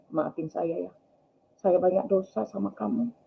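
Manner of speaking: soft confession of a dying man; retold hushed apology. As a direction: quietly ask forgiveness. Dying husband begs forgiveness.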